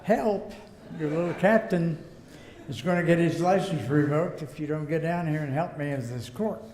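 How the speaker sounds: begging the boss half in jest; calling the boss in a mock panic; mock plea for help. Pleading phone call to boss.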